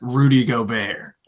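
lightly voiced schemer, drawn out; scheming front office exec. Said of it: "The front office is like".

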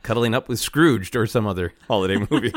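laughing through the words. Real, not acted. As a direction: giggle through a guilty joke. Guilty joke while laughing.

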